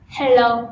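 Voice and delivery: "Hello" with a clear L, said loud; a crisp L at the start of "Hello"; the right "Hello", L not N; correct hello. Shown as a demonstration. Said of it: "not hello".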